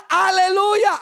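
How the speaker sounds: high, drawn-out heckler's call; imitated shout. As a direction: call it out like the jeering townsfolk. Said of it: "Y luego gritaban". (grito imitado de la gente)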